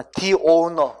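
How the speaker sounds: 디 오너 with 디 as "dee"; article said "dee". Shown as a demonstration. Teacher models the article before a vowel, 디 오너 with "dee". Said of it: "모음이니까 디로 발음하면 되잖아".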